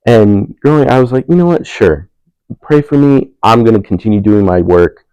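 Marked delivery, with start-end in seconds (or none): 1.3-5.0 mock resigned. Retold weary agreement.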